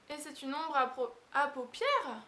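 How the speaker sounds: tripping over paupières while laughing; botched take, giggling; laughing stumble. Real, not acted. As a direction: fumble ombre à paupières through a laugh. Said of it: "Oh, j'ai pas y arriver".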